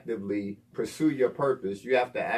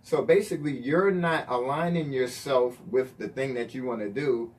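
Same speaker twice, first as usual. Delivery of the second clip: laughing; 5 semitones higher, 8 dB louder than usual. Real, not acted. Laughing through the joke.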